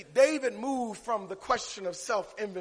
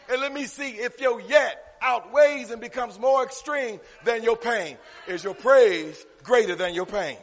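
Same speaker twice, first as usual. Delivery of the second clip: preacher hammering out key words; emphatic preaching; 5 semitones higher, 7 dB louder than usual. Real, not acted. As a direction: drive each phrase home to the congregation. Preaching the seesaw image.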